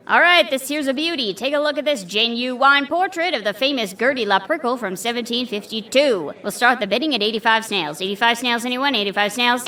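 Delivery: lightly voiced auctioneer; brisk auctioneer calling bids. Auctioneer character.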